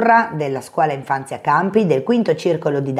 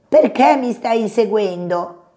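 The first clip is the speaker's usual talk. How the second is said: higher, pleading, a touch frightened; frightened question; 4 semitones higher than usual. Acted. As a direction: still scared, asking why he is chased. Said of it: "gridò Coniglio tremante".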